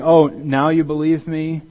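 slow sarcastic jab at late believers; sarcastic disbelief. Retold or imitated. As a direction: stretch the "Oh" in mock surprise. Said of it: "It was almost as if he were saying".

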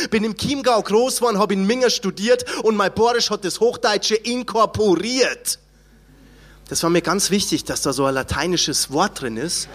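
rhythmic spoken-word poem recital; proud dialect poem, rhymed and punchy. Acted. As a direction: recite it like a defiant rap poem. Recites his own poem.

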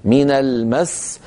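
slow من المس with a push into the final s; stress, no stretching. Shown as a demonstration. Teacher corrects students, the matter is pressure, stressed المس. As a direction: press on المس and close its seen promptly. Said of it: "إنما الموضوع موضوع ضغط".

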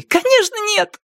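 high shriek. Acted. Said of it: "снова взвизгнула Зои".

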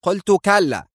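high-pitched, angry insistence; indignant, high, final no; angry refusal. A narrator's reading. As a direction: refuse angrily, pitch jumping up. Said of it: "قالت الوزيرة في غضب".

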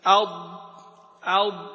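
"أض" closed firmly on the side edge of the tongue; pressed Dad. Shown as a demonstration. Teacher shows where the tongue presses, "أض" with a firm held Dad. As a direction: press and hold the heavy ض in "أض". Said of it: "اللي اللسان يضغط فيه".

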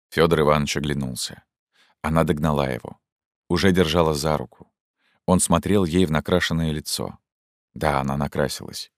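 ordinary delivery

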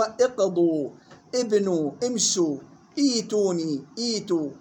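اقضوا، ابنوا، امشوا، ايتوني، ايتوا each begun on "i"; initial kasra. Shown as a demonstration. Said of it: "فنبدأ به بالكسر". (اقضوا، ابنوا، امشوا، ايتوني، ايتوا بهمزة مكسورة)

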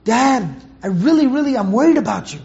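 gently pleading with his father; earnest plea to a worried dad. Shown as a demonstration. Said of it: "you have that pleading tone in your voice".

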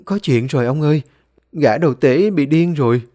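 half-hearted acted yell; urgent shout. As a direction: wake grandpa with urgent news. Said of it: "có gì mà hét lên như vậy".

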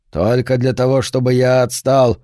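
rasping, choked voice; hoarse rasp. Acted. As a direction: croak it out hoarsely. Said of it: "прохрипел Деннис".

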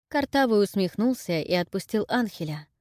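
plain reading voice

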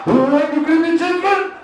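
put-on high, slow, thick accent on "bring chicken"; drive-thru worker with a heavy Spanish accent; Mexican accent. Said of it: "Did you say creepy chicken?".

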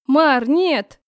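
a cry of horror as her brother is stabbed; horrified cry. A narrator's reading. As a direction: scream it in terror to stop him. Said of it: "выкрикнула я в ужасе".

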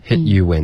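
"hit you in" with the tongue tip up on n; careful model of "hit you in", n fully sounded; firm n ending. Shown as a demonstration. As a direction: close "hit you in" on a clear n. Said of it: "最好是咬舌尖".

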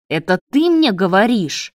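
mild growling anger; growled. Acted. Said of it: "прорычал Давид". (слегка прорычал)

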